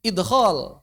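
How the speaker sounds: "Idkhol" with a bouncing d; "Idkhol", d echoed before the kh; with qalqalah. Shown as a demonstration. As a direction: release the d of "Idkhol" with a tiny echo. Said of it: "Ngomong idkhol tanpa qalqalah".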